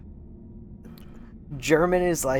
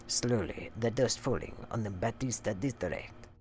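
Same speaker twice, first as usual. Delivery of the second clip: soft, measured put-on reading voice; hushed mock-formal letter reading; letter read aloud; 4 semitones lower, 5 dB quieter than usual. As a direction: read the letter out in character, fairly low-key. Resumes the letter.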